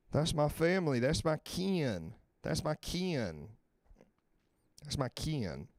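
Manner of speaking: Southern accent with a stretched-out "kin". Shown as a demonstration. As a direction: draw out "kin" like an American Southerner. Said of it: "I could do that accent, son. I'm from the South".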